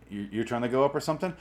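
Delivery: ordinary talk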